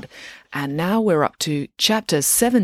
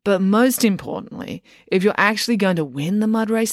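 put-on bossy coach girl; 4 semitones higher than usual. Loretta instructs.

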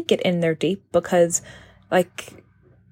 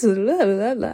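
demo of sing-song voice; 3 semitones higher, slower than usual. Shown as a demonstration. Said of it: "my voice is, like, going like this".

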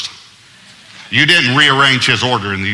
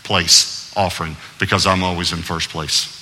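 lightly voiced God, lower and measured; God refusing; 5 semitones lower than usual. God turns down a second place offering, lightly voiced, low and measured. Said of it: "And God said".

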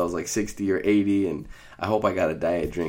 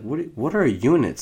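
high, louder bewildered what; confused question; 8 semitones higher, 5 dB louder than usual. Retold or imitated. Patient baffled by the nurse asking what units are. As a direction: ask it baffled, pitch jumping up.

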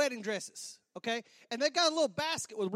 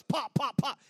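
quick vocal nail-gun shots; imitated nail gun; 4 dB louder, slower than usual. Groom showing off the nail guns he wants, imitated firing.

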